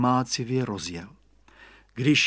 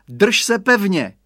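higher, louder, slow motherly warning; firm mother; 7 semitones higher, 7 dB louder than usual. A narrator's reading. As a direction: mum stressing he must hold on. Maminka napomíná. (maminka důrazně a pomalu napomíná)

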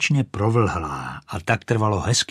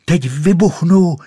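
much louder, higher cry; shouting; 8 semitones higher, 9 dB louder than usual. Acted. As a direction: burst out triumphant. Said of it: "křičela".

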